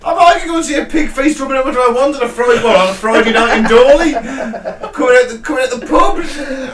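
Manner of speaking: high-pitched comic protest; incredulous pub-banter rant; mock indignation. Comic protest at absurd outing.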